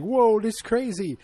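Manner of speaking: high, loud whoa of amazement; mock astonishment. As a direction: cry out as if on a wild ride. Voices the ship in the vortex.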